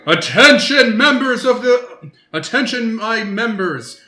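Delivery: high, loud commanding bellow through halls; booming voice. Acted. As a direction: boom out the alarm to the monks. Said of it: "you hear a booming voice scream through the hallways".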